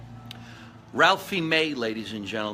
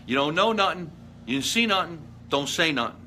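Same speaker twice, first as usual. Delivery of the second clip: mock mobster warning; 4 semitones higher than usual. Mock mob warning to viewers.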